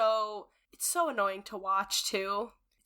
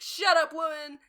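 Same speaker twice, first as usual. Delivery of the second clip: mock Robert snapping; 4 semitones higher, 4 dB louder than usual. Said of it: "And he's like".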